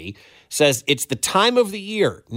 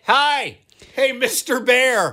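appeasing; 8 semitones higher, slower than usual. Pretend. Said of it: "speaking in a calm, appeasing tone".

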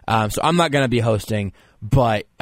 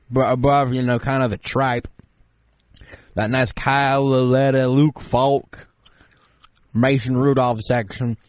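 lightly raised voice of a self-styled expert; pompous draft expert. Acted. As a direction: play a smug know-it-all analyst. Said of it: "you might be surprised to know that I sound this way".

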